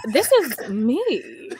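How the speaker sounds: slow, unvoiced, mock crying whisper; tearful whisper. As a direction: whisper it, choked up.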